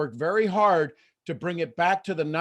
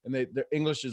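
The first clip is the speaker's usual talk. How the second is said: ordinary delivery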